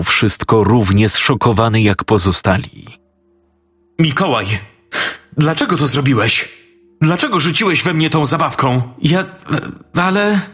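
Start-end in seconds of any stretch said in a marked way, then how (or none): 4.0-8.8 a higher, quicker, hurt kindergarten teacher; teacher confronting the boy who she thinks threw it; upset teacher. A narrator's reading. 9.0-10.4 put-on a boy's high, stammering start; boy falsely accused trying to protest; flustered boy. A narrator's reading. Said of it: "zaczął chłopiec".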